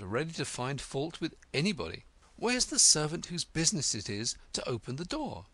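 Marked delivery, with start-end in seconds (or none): 2.3-5.5 a touch of indignation; understated annoyed demand; mildly angry. Acted. Alice demands the servant, mildly cross. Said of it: "she began angrily".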